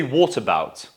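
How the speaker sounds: British "what about" with O in "what"; teacher modelling "what about" with O sound; British pronunciation. Shown as a demonstration. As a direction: round the first vowel of "what about". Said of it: "In that case, we have to say".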